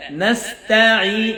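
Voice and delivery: নাস্তাঈ with a thin, light তা; careful teacher's নাস্তাঈ, light vowel on তা; correct light "ta". Shown as a demonstration. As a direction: say নাস্তাঈ slowly, keeping the তা thin. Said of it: "নাস-, ত হয়ে যাও অনেকের".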